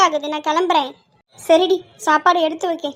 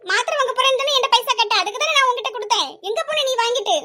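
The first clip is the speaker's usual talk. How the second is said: high-pitched accusing questions; angry; 4 semitones higher, 3 dB quieter than usual. Acted. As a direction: press the accusation without shouting. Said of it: "கோவப்பட்டுட்டு இருக்கா". (கோபமாகக் குற்றம் சாட்டுவது)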